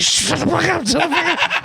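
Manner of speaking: high squeaky mock stripper, laughing at the end; mock stripper snap. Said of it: "she's like".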